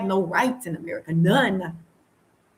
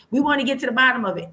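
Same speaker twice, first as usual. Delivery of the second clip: quicker, higher imitation of a grieving relative on the news; mock family on TV; 4 semitones higher, faster than usual. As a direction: parrot the family's TV statement, a bit fast. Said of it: "That's what everybody say".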